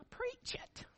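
high, thin, far-off voice urging him on; housewives cheering. Retold or imitated. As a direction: squeal it like an excited church lady. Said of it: "All the housewives are going".

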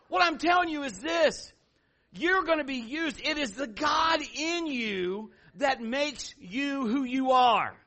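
high, loud, drawn-out preaching. Acted. Preacher driving the lesson home to the congregation. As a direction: build it up like a revival preacher.

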